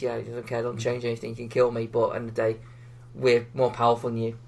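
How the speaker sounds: understated, low-key retold threat; quietly demeaning threat. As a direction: quote a threat with quiet disdain. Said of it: "quietly demeaning threat".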